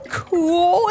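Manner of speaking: put-on high little-girl delight; high-pitched eager cry; excited exclamation. A narrator's reading. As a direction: exclaim like a thrilled child. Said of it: "exclaimed Ivy".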